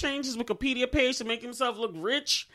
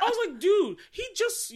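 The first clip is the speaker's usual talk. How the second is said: laughing disbelief; 12 semitones higher, 4 dB louder than usual. Real, not acted. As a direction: laugh it out, can't believe they missed him.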